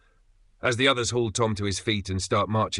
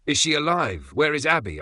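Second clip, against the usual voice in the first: raised, pleading cry, higher; 7 semitones higher, 3 dB louder than usual. A narrator's reading. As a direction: beg for news of Abby. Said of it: "I cry out".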